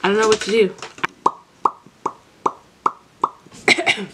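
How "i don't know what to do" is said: tipsy and lost. Real, not acted. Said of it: "while you're drunk".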